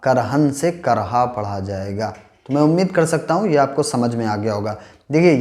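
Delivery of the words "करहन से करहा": करहन becomes करहा, final n dropped at the stop; slow contrast करहन to करहा; pausal form demo. Shown as a demonstration. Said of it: "वक्फ की हालत में हालिब ज़बर हा पढ़ा जाएगा".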